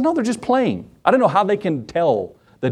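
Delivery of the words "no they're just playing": dismissive husband. Retold or imitated. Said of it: "I said".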